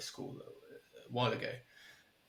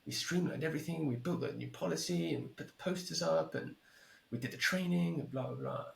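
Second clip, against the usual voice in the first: higher-pitched exasperated retelling; imitated annoyance; 5 semitones higher than usual. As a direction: mimic someone getting annoyed, pitched up. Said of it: "she's getting so annoyed".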